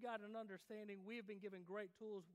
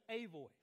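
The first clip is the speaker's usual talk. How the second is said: "A" said as a full "ay" before "voice"; stress on A; 2 semitones lower than usual. Shown as a demonstration. Preacher reading Isaiah's wording, emphatic A. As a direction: set out "A" clearly, one among many. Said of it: "he says".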